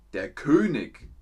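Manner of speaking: König ending in hard k, Könik; Bavarian König. Shown as a demonstration. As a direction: say König with a k at the end. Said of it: "ist in Bayern der König". (König mit k gesprochen, Könik)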